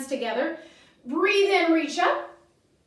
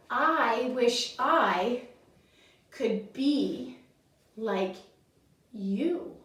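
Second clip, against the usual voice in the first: wishing chameleon; 2 semitones lower, much slower than usual. Acted. Chameleon's wistful wish in story.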